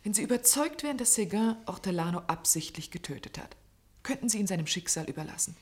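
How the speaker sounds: soft, hushed pressing; whisper. Acted. Man urging the doctor about Seguin's fate, whispered.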